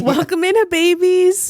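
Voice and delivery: high, projected show-opening voice; podcast host intro. Real, not acted. Host welcoming listeners to the podcast, high announcer delivery. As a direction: announce the episode topics brightly to the audience.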